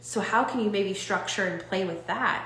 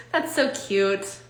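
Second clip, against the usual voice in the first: fond teasing; slower than usual. Shown as a demonstration. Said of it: "if we just talk to ourselves like this".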